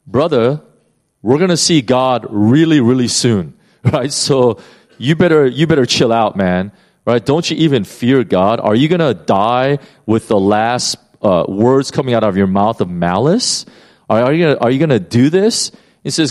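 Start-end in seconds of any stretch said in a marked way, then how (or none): 0.1-7.2 a touch of a scolding criminal, a bit louder; lightly voiced thief warning his partner; mock thief scolding. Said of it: "In other words". 7.2-8.6 lightly acted thief rebuking his partner; mock scolding. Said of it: "In other words". 8.6-15.7 lightly voiced thief warning his partner; mock thief scolding. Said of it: "In other words".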